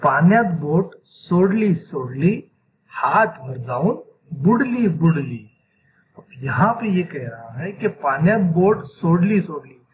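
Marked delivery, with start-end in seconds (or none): 0.0-5.5 poem recitation. Shown as a demonstration. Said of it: "इस नज़म को कैसे पढ़ा जाता है".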